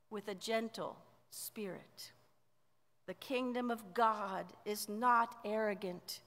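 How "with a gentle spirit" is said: hushed, tender whisper; soft whispered gentleness; gentle whisper. Acted. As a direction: breathe it gently, like a comfort. Paul contrasts rod with love.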